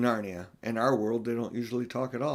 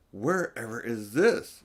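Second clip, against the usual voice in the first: tired and pale; slower than usual. Acted. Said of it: "sounding tired and pale in the darkness".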